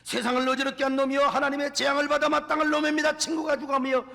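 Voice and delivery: loud repentant plea; pleading confession. Retold or imitated. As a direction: cry out a confession before God. Elder's voiced public confession.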